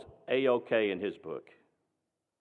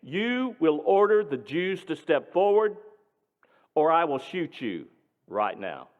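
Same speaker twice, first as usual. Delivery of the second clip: louder and higher, slow on one last chance; screamed threat; 3 semitones higher, 4 dB louder than usual. Retold or imitated. Nazi major screaming a final threat at Dad. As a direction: scream the ultimatum with a pistol raised. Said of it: "And he screamed".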